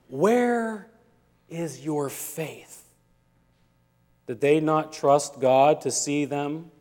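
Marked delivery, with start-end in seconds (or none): 0.1-2.8 soft, slow, disappointed question; a quiet letdown, sinking away. A narrator's reading. Jesus asking the disciples, softly disappointed. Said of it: "deep disappointment".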